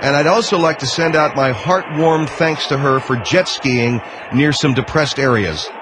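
heavily sarcastic thanks and well-wishing. Real, not acted. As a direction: lay on fake gratitude, voice lifted. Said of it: "I'm being sarcastic".

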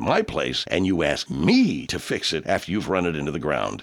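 low, blunt car dealer voice; grumpy mechanic pitching his shop; gruff old mechanic. Acted.

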